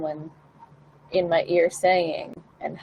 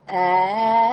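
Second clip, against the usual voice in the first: sung ah with tongue out; 3 semitones higher, 5 dB louder than usual. Shown as a demonstration. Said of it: "what if I sing this and I stick my tongue out".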